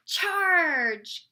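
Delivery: drawn-out, high storybook war cry; battle cry. A narrator's reading. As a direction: cry out like a knight leading the attack. Narrator voices a battle cry.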